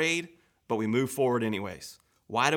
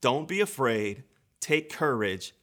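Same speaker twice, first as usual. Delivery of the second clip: reassuring; slower than usual. Acted. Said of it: "one of the best phrases in the Bible".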